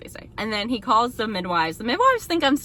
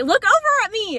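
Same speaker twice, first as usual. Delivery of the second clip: higher, louder urgent demand; insistent shout; 12 semitones higher, 7 dB louder than usual. Retold or imitated. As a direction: make him look at you now. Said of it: "but I'm like".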